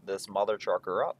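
slow gruff action-hero line; snake voice. Pretend. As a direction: growl it like a tough soldier. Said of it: "That's my snake voice".

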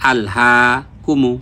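আল হা কুমু with long হা, short কুমু; elongated vowel. Shown as a demonstration. Teacher joining the word for students, long-held হা in আল হা কুমু. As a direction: stretch হা, keep কুমু quick. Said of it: "মাদের হরকত এক আলিফ".

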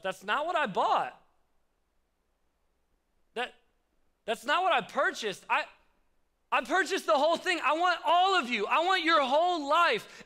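earnest Jesus, growing in intensity; Jesus speaking. Retold or imitated. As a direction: build from gentle protest to a longing plea. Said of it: "Jesus is thinking to himself".

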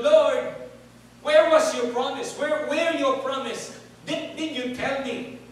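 a loud, pleading cry of protest, starting loudest on "Lord"; loud complaint to God. Retold or imitated. Abraham crying out to God over the unkept promise, loud complaint. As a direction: cry out your grievance to heaven. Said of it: "complain to God".

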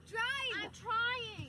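panicked urgency. Acted. Panicked getaway from yelling father.

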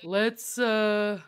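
very slow turtle character; Giddy Lee. Acted. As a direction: stretch it out, slow and easygoing. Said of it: "he just talks really slow".

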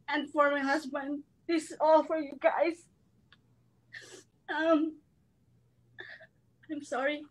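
holding back tears while thanking family; tearful. Real, not acted. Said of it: "I'm sorry about my crying time".

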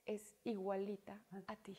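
imitating a father's hushed remark; barely voiced retold whisper; whispered aside. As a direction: whisper it slowly as a quiet dig.

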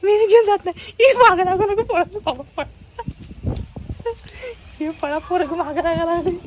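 high playful mock pleading; mock panic. Father fleeing his splashing son in high mock panic. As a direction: squeal as if running from a soaking. Child chases dad with water.

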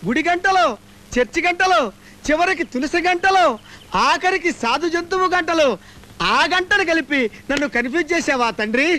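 a touch of hammed-up begging to god; pleading prayer. Man begging god to save him, mock pleading. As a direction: plead to the heavens, calling nayana.

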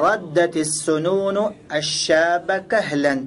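slow, stretched Arabic phrasing; example recitation. Shown as a demonstration. Teacher giving students an Arabic example, slow measured reading. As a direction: read it out phrase by phrase, slowly.

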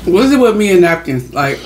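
muffled through fingers; talking behind hand. Real, not acted. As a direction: hand over mouth while chewing. Seen 0: Hand cupped over mouth while talking, mid-chew, no napkin at hand.

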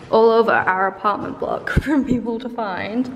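talking with medicine in mouth; mouth full. Real, not acted. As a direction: speak around a pill in mouth. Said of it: "Sorry, I have medication in my mouth".

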